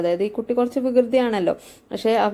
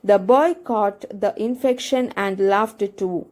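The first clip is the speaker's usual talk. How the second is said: reads the English text slowly, word by word; slow text reading; much slower than usual. Acted. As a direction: spell it out slowly for the students. (പതുക്കെ വായിക്കുന്ന പാഠം)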